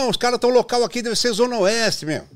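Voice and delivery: high, loud caller voice; lightly voiced eager listener; excited caller. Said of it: "o outro ligava e falava".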